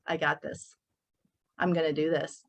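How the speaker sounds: soft, low, determined promise to yourself; quiet self-talk. Retold or imitated. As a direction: murmur it to your mirror like a vow. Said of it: "look in the mirror and tell yourself".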